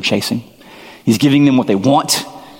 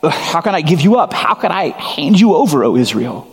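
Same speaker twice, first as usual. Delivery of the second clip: How can I give you up raised high, with a rise on you; higher, aching plea; 5 semitones higher than usual. Shown as a demonstration. Preacher making the flock hear God's anguish, higher pleading voice. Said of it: "Do you hear the".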